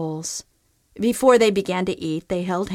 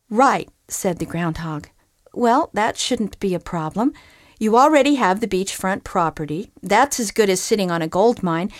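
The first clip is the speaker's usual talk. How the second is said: no-nonsense groundhog. Acted. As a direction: set him straight like a sensible realtor. Groundhog gives practical advice.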